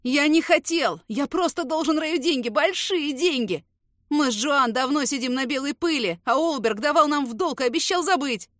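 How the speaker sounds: terrified snitch wailing his confession. Acted. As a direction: blurt it all out crying. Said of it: "продолжает утираться соплями Фриман".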